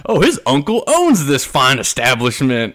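mock sarcastic. Retold sarcastic remark.

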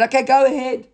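a touch of a careless nobleman saying sure; husband's easy consent. Retold or imitated. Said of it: "He said".

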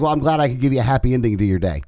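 put-on retelling a woman's line in an Asian accent; light Asian accent on a quoted line. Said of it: "in a Asian accent".

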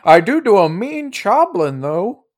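put-on high-pitched old-lady voice. Shown as a demonstration. Game master defending the impression, high old-lady voice. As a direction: lift it high into an old woman's voice. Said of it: "and I'm an old lady".

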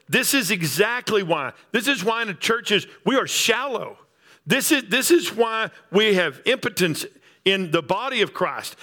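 mounting pulpit fervour; rising preaching. Acted. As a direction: drive the list home like a sermon climax. Preaching builds to full force.

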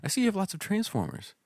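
put-on high, sing-song little girl voice, fading toward the end; imitating daughter. Father mimics his daughter pitching Transformers to a customer, high child voice. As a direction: mimic a small girl giving a sales pitch. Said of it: "She's like".

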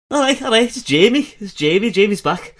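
high, loud Kuno from Disco Elysium; squeaky manic Kuno impression. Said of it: "just do Kuno's voice from".

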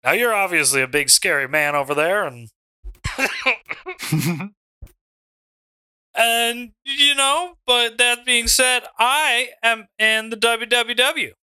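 Mitchy Richie in the ring. Acted. Mitchy Richie answers the Dom on the mic, promo voice. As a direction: address the crowd as a cocky wrestler.

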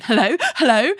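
retold eager, flustered greeting; frantic. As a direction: imitate grabbing the phone in a fluster. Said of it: "frantically runs to her desk".

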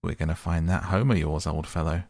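pleasantly. Acted. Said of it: "replied the rat pleasantly".

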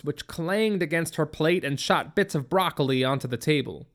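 ordinary delivery, nothing marked

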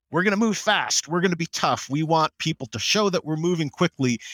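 lightly mocking tough talk; mock tough client. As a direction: strut it like a tough boss. Mimicking clients' bravado.

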